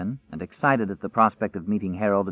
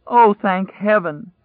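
higher, louder, slow and choked with relief; crying out; 10 semitones higher, 6 dB louder, slower than usual. Acted. Stranger cries out again at finding survivors, slow high choked cry. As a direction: let the relief break out, drawn out and loud. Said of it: "it cried".

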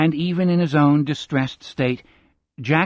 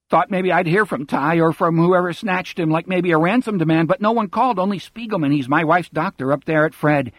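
fast, breathless run-on talk without pauses; droning rush; 5 semitones higher than usual. Acted. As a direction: pour it out with no stops, higher and fast. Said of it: "droning along with none of the stops".

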